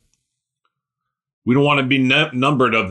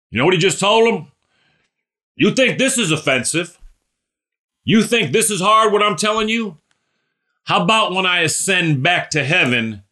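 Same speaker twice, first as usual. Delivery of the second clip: higher, intensifying challenge; ratcheted up; 6 semitones higher than usual. Retold or imitated. Jesus confronting offended disciples, higher and pressing. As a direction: push it to the next level. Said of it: "He ratchets it up".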